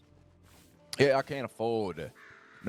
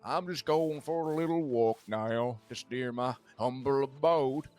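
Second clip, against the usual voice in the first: a hint of a put-on sheriff, slow and higher; lightly voiced sheriff; 3 semitones higher than usual. Retelling the sheriff's answer about his walk, lightly put-on voice. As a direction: imitate the sheriff's answer, drawn out. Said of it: "He's like".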